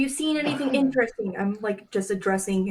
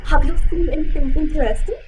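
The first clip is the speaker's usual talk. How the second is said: lightly voiced character, a bit higher and louder; put-on character voice; 4 semitones higher, 5 dB louder than usual. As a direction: try a character voice on the line. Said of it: "restate your sentence with a voice".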